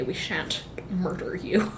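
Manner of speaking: soft unvoiced menace; whispered threat. Rourke quietly threatening the strangers in a whisper. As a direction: breathe the threat.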